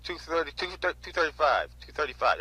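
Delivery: mild mock auctioneer egging on bidders; imitating the auctioneer. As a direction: coax bids like a lazy auctioneer. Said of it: "That's exactly how he says it".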